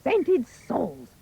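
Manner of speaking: very high, excited mother yelling; loud yell. A narrator's reading. Mother spotting gold and ordering Jack up, loud yell. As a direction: yell orders at the boy, pitch soaring. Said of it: "She yells out loud".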